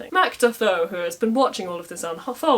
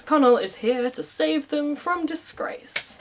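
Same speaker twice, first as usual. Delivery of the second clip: cheering; 8 semitones higher, slower than usual. Retold or imitated. Ulstermen cheering Conall.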